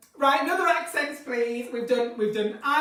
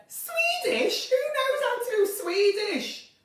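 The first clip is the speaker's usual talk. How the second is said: Swedish accent attempt; 12 semitones higher, slower than usual. Shown as a demonstration. Trying requested Swedish accent.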